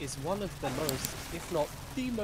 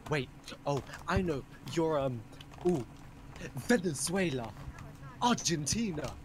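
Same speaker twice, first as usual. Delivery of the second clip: slightly raised, halting mock guesswork; imitating eager guessers; 3 semitones higher than usual. Strangers guessing from his looks, mock eager guessing. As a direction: guess brightly, piece by piece.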